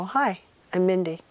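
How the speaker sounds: casual retold greeting; calm, no big deal. Retelling her first hello to a singer, calm and casual. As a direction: introduce yourself calmly, playing it unfazed. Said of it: "Calm, no big deal".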